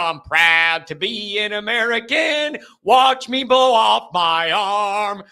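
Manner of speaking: lightly voiced mock-proud American, slow at end; hint of a boastful redneck voice; mock patriot. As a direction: lampoon a reckless firework fan. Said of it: "when they're like".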